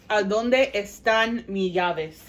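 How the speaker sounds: each word spelled out slowly; slow and clear. Shown as a demonstration. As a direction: say it slowly so they catch it. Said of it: "Just in case you could not hear".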